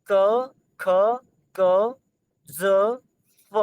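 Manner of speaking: sounding out क, ख, ज and फ, with the first loud; trying each letter carefully, then struggling; demonstrating sounds. Shown as a demonstration. Teacher trying to show students the borrowed sounds. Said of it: "बोल ही नहीं पा रहा".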